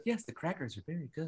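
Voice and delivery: high, soft, quick mannequin reply; weird dubbed voice. Retold or imitated. Mannequin answers the killer at dinner, weird dubbed voice. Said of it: "it's this weird, like, eighty-yard voice".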